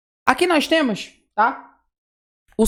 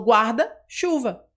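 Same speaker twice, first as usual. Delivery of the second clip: slow demo; much slower than usual. Shown as a demonstration. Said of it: "Quando eu falo, por exemplo".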